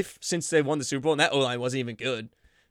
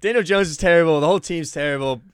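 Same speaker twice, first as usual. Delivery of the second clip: louder furious venting; angry rant; 3 semitones higher, 7 dB louder than usual. Real, not acted. Fan rants about Daniel Jones and the Giants, loud and angry. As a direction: tear into the whole team.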